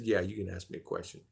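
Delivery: low, soft sheriff voice; gruff sheriff. Retold or imitated. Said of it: "He said".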